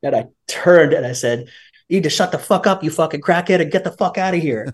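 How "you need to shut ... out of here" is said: raised-pitch telling-off, volume held back; heated but not shouted; retold angry snap. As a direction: re-enact losing your temper. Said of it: "And I, I snapped".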